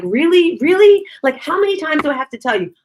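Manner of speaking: high, incredulous exasperation; fed-up exasperation. Retold or imitated. Fed up repeating herself to her mother, exasperated. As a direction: act out being sick of repeating it. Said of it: "I got tired of repeating myself".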